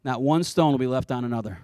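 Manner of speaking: offhand, low and casual aside; flippant. Acted. Preacher voicing Jesus to his awed disciples, mildly flippant. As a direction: toss it off over the shoulder, understated. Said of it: "flippantly like".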